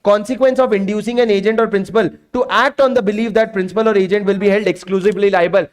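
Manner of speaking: reading the statute slowly word by word; slow dictation. Shown as a demonstration. Teacher dictating the law to his class in a slow read. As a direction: dictate it so students can write.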